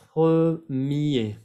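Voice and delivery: "premier" ending on an open "yé", no R; French pronunciation demo. Shown as a demonstration. French teacher showing Spanish speakers a word, final R of "premier" silent. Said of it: "No vayan a pronunciar la R".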